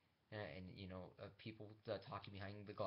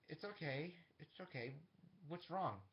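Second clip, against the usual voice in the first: higher-pitched comforting voice, acted; gentle reassurance; 7 semitones higher than usual. Steven gets up as she weeps, gentle reassurance. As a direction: soothe someone in tears, pitched up.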